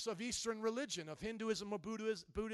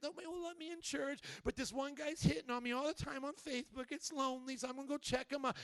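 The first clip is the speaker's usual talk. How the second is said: put-on young lady complaining; 5 semitones higher than usual. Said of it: "like a young lady saying that".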